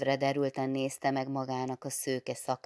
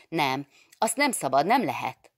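plaintive pleading; 2 semitones higher, 9 dB louder than usual. A narrator's reading. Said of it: "folytatta Erzsi panaszosan és kérlelve".

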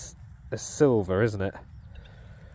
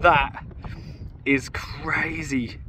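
slow whispered disbelief; awed whisper; 2 semitones higher, much slower than usual. Real, not acted. Finder to viewers, whispering in amazement. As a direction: breathe it out, stunned. Stunned by find.

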